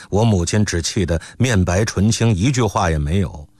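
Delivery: ordinary delivery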